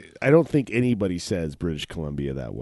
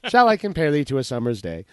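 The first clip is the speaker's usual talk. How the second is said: loud, mock-grand recital; hammed-up sonnet reading; sudden mock-romantic; 6 semitones higher, 8 dB louder than usual. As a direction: swoon into the line theatrically. Switches to poem after mock rant.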